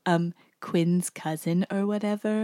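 lightly put-on cartoon character voice; hint at the character as you quote; Sandy. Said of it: "no, she says".

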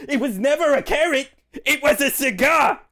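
high, indignant insistence; exasperated correction. Acted. Chester setting Ro straight about the cigar, high and exasperated.

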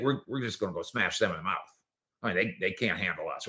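low, soft lightly voiced trash talk; a hint of a tough linebacker boasting; imitating Tank. Host imitates Tank's trash talk, lightly voiced low.

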